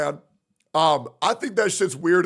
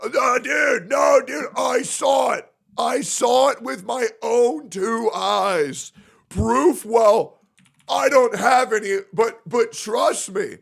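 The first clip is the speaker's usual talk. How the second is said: mock delusional fan; 3 semitones higher, slower than usual. Streamer mocking Twitter accusers, insistent and shouted. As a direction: insist like a smug know-it-all. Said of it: "delusional motherfuckers just come out".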